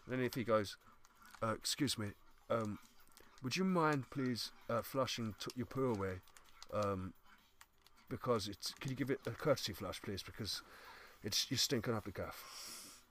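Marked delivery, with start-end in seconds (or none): 1.4-13.0 slow, soft, hesitant courtesy ask; mildly apologetic, slow stranger; hesitant polite request. Retold or imitated. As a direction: ask gently and slowly, a little embarrassed. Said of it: "Just like that".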